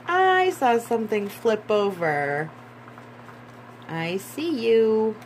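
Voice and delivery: delighted realisation; excited. Real, not acted. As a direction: point it out with excitement. Card flips during tarot reading.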